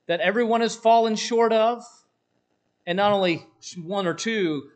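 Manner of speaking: loud, rising disbelief; incredulous. Acted. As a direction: ask it as if it can't be true. Incredulous rhetorical questioning.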